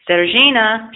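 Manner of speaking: loud high call for the cat; calling shout. A narrator's reading. Old man shouting for his cat. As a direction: shout the cat's name out. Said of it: "shouted the old fisherman".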